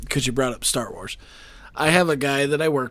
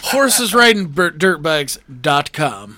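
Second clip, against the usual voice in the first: laughing; 5 dB louder, slower than usual. Real, not acted. Laughing announces domain.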